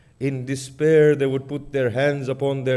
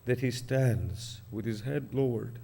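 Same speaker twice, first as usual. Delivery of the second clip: grieving sermon narration, rising and falling in waves; mournful recitation. Acted. Preacher recounting Hussein's death to mourners in lamenting recitation. Majlis recitation of Karbala martyrdom.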